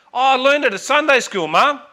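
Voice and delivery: lightly voiced little girl explaining; innocent little girl. Daughter answers her mother.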